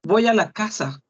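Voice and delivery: Voy a la casa run together as boj al a kasa; Voy a la casa merged into one flow; linked speech. Shown as a demonstration. Teacher shows natural linked pronunciation. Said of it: "Eso es lo que pronunciamos".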